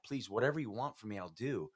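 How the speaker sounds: pleading with God, pitch rising; imitated prayer of desperate surrender; retold crying out. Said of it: "I'm crying out to God".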